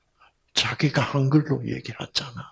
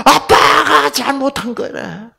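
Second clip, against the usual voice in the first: high, loud wailing "아빠가 잘못한 거래" with stress on 아빠가; a daughter wailing through tears; crying child; 14 semitones higher, 9 dB louder, slower than usual. Retold or imitated. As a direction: sob it out as a blaming child. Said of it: "때리면서 뭐라 그런지 알아요?".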